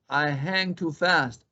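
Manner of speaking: high, quick bunny voice; jittery rabbit. Acted. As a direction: bounce through it like a hyper hare. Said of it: "said Conejo".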